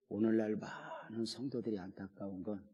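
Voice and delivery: normal talking voice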